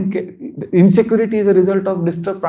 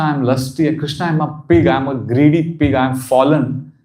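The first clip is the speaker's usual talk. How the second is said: soul's own voice; 4 semitones lower than usual. Shown as a demonstration. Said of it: "when it's my voice".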